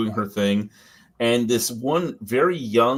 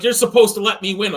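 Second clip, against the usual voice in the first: higher, louder retold protest; mock indignant complaint; 8 semitones higher, 7 dB louder than usual. Coworker losing arm wrestle, mock indignant complaint. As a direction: whine back like a sore loser. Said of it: "She got so mad at me".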